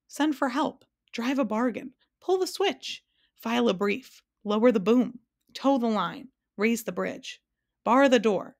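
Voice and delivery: high, mildly shouted rapid-list suggestions; shouting suggestions. A narrator's reading. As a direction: fire off ideas like an excitable bug. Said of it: "shouted the bug".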